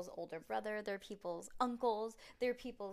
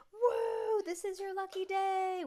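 put-on very high, loud excited kid; thrilled exclamation; 12 semitones higher, 10 dB louder, slower than usual. A narrator's reading. Acted thrilled kid in story.

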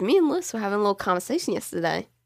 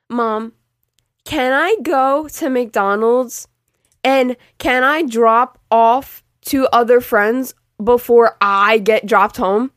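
sarcastic; 2 semitones higher, 6 dB louder, much slower than usual. Retold or imitated. Mocking the permission she should've asked.

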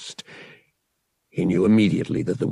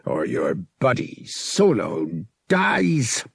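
snarled threat; 3 semitones higher, slower than usual. Acted. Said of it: "the captain snarled".

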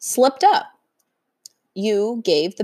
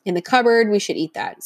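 tempting pig voice. Retold or imitated. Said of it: "you hear this voice".

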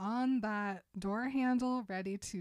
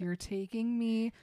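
louder and very slow, incredulous; tearful disbelief; 8 dB louder, much slower than usual. Retold or imitated. Bella in tears asking Edward about prom, stretched-out shocked wail. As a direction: drag out the shocked question in dismay.

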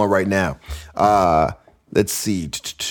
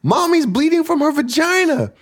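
mock bawling. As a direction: wail like a sobbing little girl. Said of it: "starts bawling".

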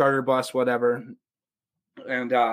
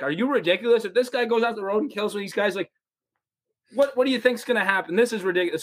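higher, incredulous scolding; mock angry coach; 5 semitones higher than usual. Coach scolding fans who want to tailgate, mock anger. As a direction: scold them in disbelief.

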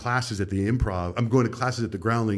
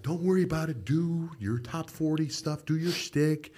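mock boss reassurance; 7 semitones higher, 4 dB quieter than usual. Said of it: "they were like".

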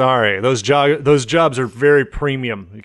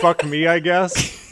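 robot voice; 4 semitones higher, slower than usual. Retold or imitated. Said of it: "a text-to-speech".

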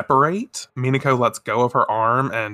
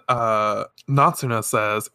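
usual speaking voice

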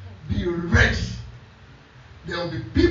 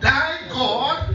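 emphatic scripture echo; 4 semitones higher than usual. Real, not acted. Preacher repeats the verse for emphasis.

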